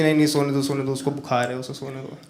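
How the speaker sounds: hushed, softening mother's plea; a mother quietly shielding her son; protective mom. Retold or imitated. Hushed mom telling dad to let her feverish son sleep. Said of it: "पीछे से mummy कहती".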